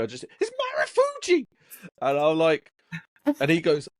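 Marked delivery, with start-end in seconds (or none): 0.4-1.5 very high-pitched, squeaky impression of a friend. Imitating a friend excited about Marufuji, squeaky high voice. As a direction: squeal it far above your own voice. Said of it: "the voice is in, every time I hear Marufuji".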